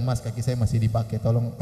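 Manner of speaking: low, mild, polite plea; gentle Solo politeness. Acted. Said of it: "kalau orang Solo itu ramah-ramah ya, tidak mudah marah".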